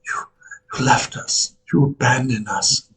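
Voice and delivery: tearful whispered accusation; broken, whispered reproach; crying. Acted. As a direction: choke it out through tears. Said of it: "she, like, starts crying and she says".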